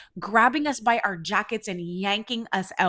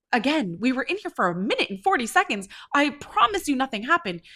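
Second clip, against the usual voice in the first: higher, emphatic self-defence; retold exasperated insistence on innocence; insistent protest; 5 semitones higher than usual. To the club manager asking what happened, emphatic protest. Pleading her case to the manager.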